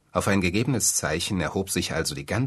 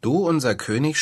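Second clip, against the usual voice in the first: angry birds; 8 semitones higher, 4 dB louder than usual. A narrator's reading. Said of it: "schrien die Vögel zornig".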